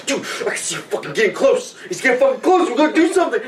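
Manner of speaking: high, rising excited voice; mocking jumpy soldier. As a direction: play the overeager guy.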